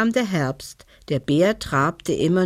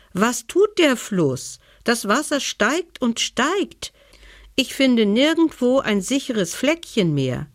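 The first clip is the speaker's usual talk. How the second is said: worried bear; 6 semitones higher than usual. Acted. Bear asks stag about rising water.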